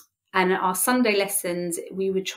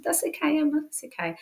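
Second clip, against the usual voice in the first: lightly voiced girls, higher and gentle; girls comforting; 10 semitones higher, 4 dB quieter than usual. Teen girls reassure their upset leader, gentle and higher. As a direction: soothe her like kind teenage girls.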